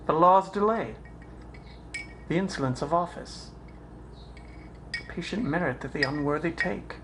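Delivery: mounting dramatic protest; building indignation. Acted. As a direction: list each wrong, building to an outburst. Hamlet's list of wrongs builds.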